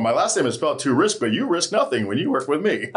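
salesy radio DJ pitch; late night DJ voice. Shown as a demonstration. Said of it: "That's my salesy, my late night D J voice".

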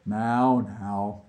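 gentle, settling hush after the storm; calm him down, easing off; soothing. Acted. Vlad calming his distraught colleague, soothing. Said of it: "Vlad soothed".

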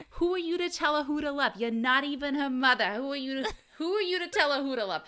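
high, fast, indignant New York scolding; imitated New York accent. Talk show audience member scolding a meddling mom, imitated New York accent. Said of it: "was clearly from New York".

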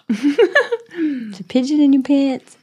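laughing. Real, not acted. Laughing about pigeon fart.

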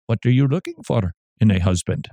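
put-on muddled Indian accent drifting toward Irish; wobbly put-on Indian accent, almost Irish; attempted matchmaker accent. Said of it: "Was that my Irish accent?".

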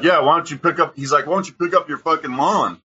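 high mocking imitation of the driver; taunting retort. The driver firing back about the lawn, a high mocking jeer. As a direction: throw the insult back like a smug jerk.

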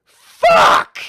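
loud, high blasted curse; real angry scream; furious yell. Real, not acted. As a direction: explode in frustration. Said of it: "I'm just getting really mad".

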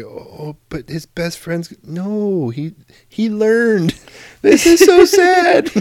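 hammed-up high, drawn-out weepy voice building to a loud wail; mock tearful. Husband acting out almost crying at Terminator, mock tearful. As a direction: play being broken up by a movie, slow and high. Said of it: "almost broke me down once".

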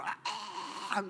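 mock honking goose cry, soft and strange; lightly voiced goose honk; goose squawk. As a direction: imitate an angry goose. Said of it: "they go".

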